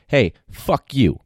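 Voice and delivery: slow, drawn-out mock insult; mock hostile curse. Shown as a demonstration. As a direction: sneer it slow and cold.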